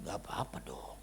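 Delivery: low, soft, half-whispered reassurance; soothing reply. Retold or imitated. Pastor calming a worried wife on the phone, soft low reassurance.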